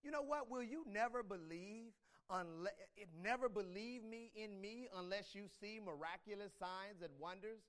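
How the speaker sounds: a touch of a challenging Jesus; light rebuke to the pleading father; confronting challenge. Acted. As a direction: mildly push back at the man. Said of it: "Jesus kind of comes at him".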